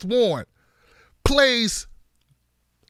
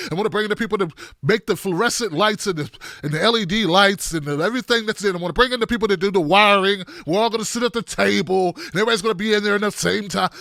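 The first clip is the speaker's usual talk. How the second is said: rattled-off list; faster than usual. Real, not acted. Exasperated mocking list of promises.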